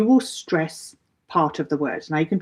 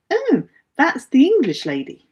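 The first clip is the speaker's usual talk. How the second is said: higher-pitched mock exclamation; imitated finger-pointing onlooker; 8 semitones higher, 3 dB louder than usual. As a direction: point someone out, voice lifted high. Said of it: "point the finger and say".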